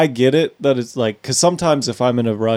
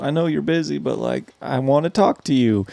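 slowed down; 4 semitones higher, 3 dB quieter than usual. Retold or imitated. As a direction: stretch it out like you've got all day. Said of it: "slowed down kinda like".

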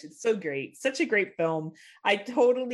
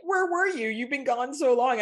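little sister voice; 5 semitones higher than usual. Retold or imitated.

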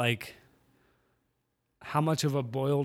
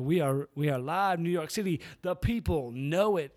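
lightly voiced wrestling promo, a bit higher; Rock impression; 3 semitones higher than usual. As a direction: hype the crowd like The Rock, only half-hearted. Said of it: "my Dwayne The Rock Johnson impression".

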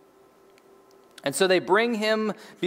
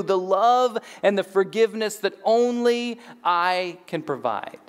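raised, stretched-out preaching delivery; lofty proclamation; 3 semitones higher than usual. Acted. Jesus answers the naysayers around him, proclaiming grandly. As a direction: declare it grandly, drawing out the key words.

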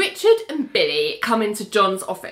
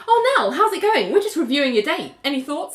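high, brisk fake-casual voice; caught-out Richard; 5 semitones higher than usual. Richard caught spying, high fake-casual greeting. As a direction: style it out brightly. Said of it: "Richard turns around and goes".

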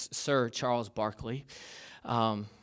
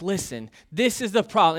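mild angry; 5 semitones higher, 6 dB louder than usual. Retold or imitated. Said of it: "he was angry".

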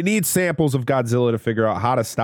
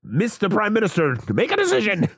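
stern lady voice; 10 semitones higher than usual. Retold or imitated.

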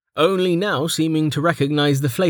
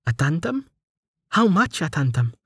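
excited surprise; 6 semitones higher than usual. A narrator's reading. Inhaled sharply, excited discovery.

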